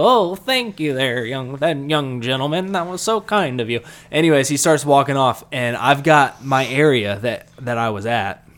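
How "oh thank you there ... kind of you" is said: put-on old man voice. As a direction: thank him like a frail old-timer. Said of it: "and I go".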